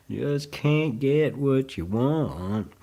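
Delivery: drawn-out rock singer impression; a famous singer. Teacher jokingly quoting a rock star, bad impression. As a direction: stretch the vowels in a bad rock-star accent. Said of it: "my bad, uh, rock singer accent".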